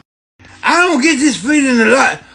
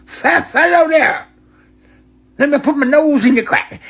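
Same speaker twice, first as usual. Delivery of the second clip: creepy stranger; 5 semitones higher than usual. Retold or imitated. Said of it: "They said".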